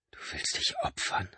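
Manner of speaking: stunned, breathless question; aghast. A narrator's reading. Mark learns his brother will sacrifice himself, aghast. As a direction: barely get the words out in shock. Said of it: "fragte er entgeistert".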